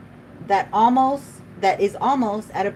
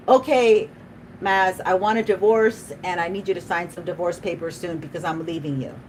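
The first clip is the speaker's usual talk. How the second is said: mock divorce demand. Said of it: "what he's gonna hear is".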